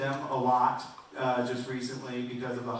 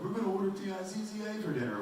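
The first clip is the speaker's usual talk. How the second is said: higher, quick parent voice spelling P I Z Z A; fast, high mock-parent spelling; spelling it out for the kid; 8 semitones higher, 4 dB quieter, faster than usual. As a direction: parent spelling out a word so the kid won't understand. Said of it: "spell out the words".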